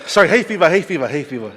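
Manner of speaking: blaming tears on hay fever, half laughing; teary joking. Real, not acted. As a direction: cover the tears with a joke. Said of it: "does my two minutes stop while I cry".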